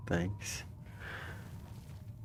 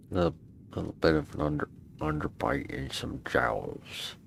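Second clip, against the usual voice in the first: gruff bulldog voice. Pretend. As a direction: growl it like a jowly bulldog. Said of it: "I have to work on my bulldog voice".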